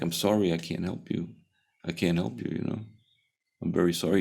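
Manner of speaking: softly apologetic, trailing away; mild, understated regret in a retold line; heartbroken apology. Guru admitting he can't help Dorothy, mildly heartbroken. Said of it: "He's very heartbroken".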